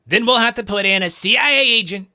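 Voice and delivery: fast, high, loud Trump riff; hammed-up Trump, racing ahead; mock Trump. Streamer riffing on Trump clip, fast loud impression.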